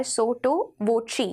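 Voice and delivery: "sotto voce" said as SO-to VO-chee; pronunciation demo. Shown as a demonstration. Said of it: "इसे हम बोलेंगे sotto voce की तरह". ("sotto voce" का उच्चारण सोटो वोची)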